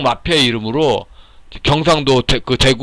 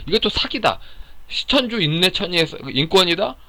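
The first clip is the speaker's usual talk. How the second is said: indignant rant; 6 semitones higher than usual. Real, not acted. Listing claims he calls frauds.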